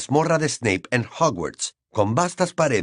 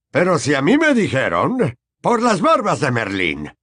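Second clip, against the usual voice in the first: higher, louder flustered wizard; flustered Mr Weasley; 4 semitones higher, 3 dB louder than usual. Acted. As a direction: protest in a fluster. Mr Weasley voiced.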